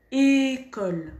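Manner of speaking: école said slowly with a closed é; careful école. Shown as a demonstration. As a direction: model école, start on a tight é. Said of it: "J'entends beaucoup de gens qui disent".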